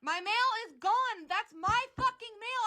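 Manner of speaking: heated, emphatic outrage; furious. Real, not acted. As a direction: spit the words out in real anger. Angry argument over missing mail.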